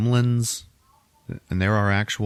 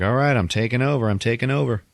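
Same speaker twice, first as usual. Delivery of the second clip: higher, quick, eager proclamation; mock villain takeover; 4 semitones higher, faster than usual. Joker declaring his takeover in Gotham City, higher and eager. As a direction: announce it briskly like a cartoon villain.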